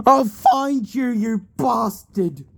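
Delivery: loud, high, slow furious vow; hammed-up angry cry; vengeful shout. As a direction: yell a vow of revenge at the killer. Grieving father swears revenge.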